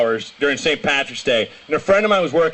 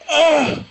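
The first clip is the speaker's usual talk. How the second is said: crowd's shocked cry; 10 semitones higher than usual. Retold or imitated. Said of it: "everyone's like".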